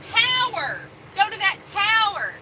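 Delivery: TOWER with a full "ow" sound, punched loud; clearly enunciated tower. Shown as a demonstration. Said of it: "what he's saying is".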